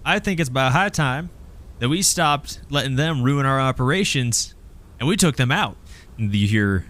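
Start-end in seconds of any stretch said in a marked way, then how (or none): 0.1-5.8 lightly voiced leader, pitched up; higher-pitched rallying speech; Amy rallying crowd. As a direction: make the case for a fight. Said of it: "She goes".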